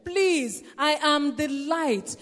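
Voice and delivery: slow, earnest plea; a touch of pleading as Jesus. Acted. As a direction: beg them gently to come. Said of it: "He was begging them".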